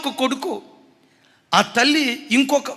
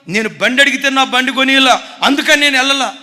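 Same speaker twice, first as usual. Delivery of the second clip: angry son; 4 semitones higher, 9 dB louder than usual. Retold or imitated. Son blaming mother, retold.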